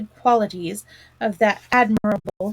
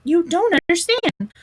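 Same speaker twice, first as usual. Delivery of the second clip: Toad flaring up, louder; excited cry; 5 semitones higher, 5 dB louder than usual. A narrator's reading. Toad refuses Rat's plan, getting excited. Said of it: "cried the Toad, getting excited".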